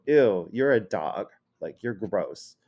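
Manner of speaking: mildly grossed-out insult; a touch of ew-you're-gross disdain; disgusted put-down. Shown as a demonstration. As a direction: say it with mild disgust. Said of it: "there's different ways of saying it".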